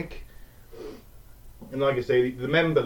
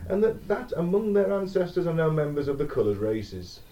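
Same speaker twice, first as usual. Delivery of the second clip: German accent; 4 semitones higher than usual. Shown as a demonstration. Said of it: "'cause I do this in a German accent".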